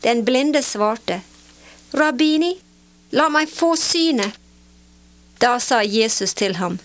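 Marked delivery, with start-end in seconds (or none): 2.0-4.3 pleading. A narrator's reading. Blind man pleads with Jesus.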